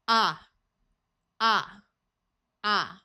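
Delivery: ah as a broad open vowel; broad A sound. Shown as a demonstration. Teacher repeating the broad A sound, clear and open. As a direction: hold ah long and open. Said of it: "The broad A sound is ah".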